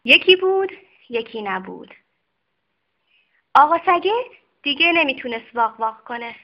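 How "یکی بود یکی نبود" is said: bright lifted once-upon-a-time; storyteller opening. A narrator's reading. Storyteller opening a children's tale, bright and loud.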